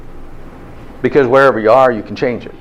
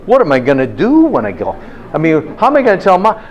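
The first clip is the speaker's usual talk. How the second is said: higher, alarmed little voices; panicking cells; 4 semitones higher than usual. Retold or imitated. The lecturer voicing his cells' panic over lost cheesecake, higher. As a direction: play the cells in a comic panic. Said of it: "What do you think they're saying?".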